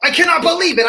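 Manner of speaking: rage. Acted.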